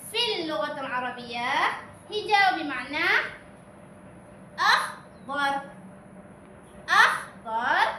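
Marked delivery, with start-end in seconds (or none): 4.6-7.9 slow model word. Shown as a demonstration. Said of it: "انطقوا معي".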